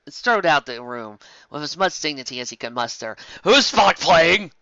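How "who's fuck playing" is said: indignant question. A narrator's reading. Chekhov asks who plays.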